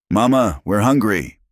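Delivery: put-on high, loud little kid voice; cub announcing. A narrator's reading. Hungry cub calling to Mama, high announcement. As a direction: announce it high and insistent, like a child. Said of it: "Dash announced".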